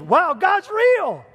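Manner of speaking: high, loud, slow amazed exclaim; awed wonder. Retold or imitated. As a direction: let the wonder break out slowly. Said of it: "it's a little exciting".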